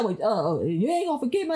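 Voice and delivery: mildly mocking copy of husband's grudging plea; hesitant start, then pitch lifts in challenge; imitating husband's tone. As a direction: mimic husband asking with attitude. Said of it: "but the way he would say it".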